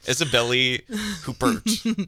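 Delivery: slow, high, drawn-out Spanish Isabelle Huppert; Spanish accent. Pretend. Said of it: "'Cause that's what we do".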